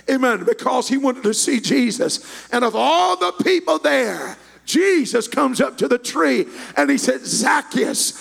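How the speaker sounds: full-force preaching. Real, not acted. Preacher urging the congregation to seek God, shouted in cadence. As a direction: drive each phrase at the congregation.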